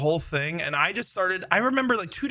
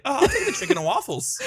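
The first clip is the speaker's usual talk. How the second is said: laughing order; 11 semitones higher, faster than usual. Retold or imitated. Ordering the same dish as the guys, laughing. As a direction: order with a grin, barely holding the laugh.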